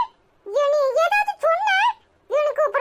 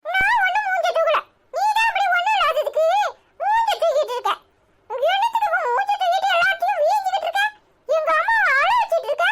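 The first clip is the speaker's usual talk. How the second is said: fast, higher, with a scoffing laugh; heated retort; 4 semitones higher, faster than usual. Acted. Son hits back at his sulking grandmother, fast and scoffing. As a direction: fire it back at her quickly.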